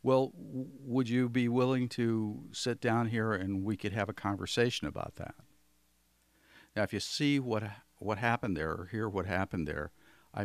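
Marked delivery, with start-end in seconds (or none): 0.0-5.3 slightly calmer, still raised; stepping down from the matched level; bringing it down. Shown as a demonstration. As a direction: ease down a notch and invite them to sit. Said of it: "take it down a little bit".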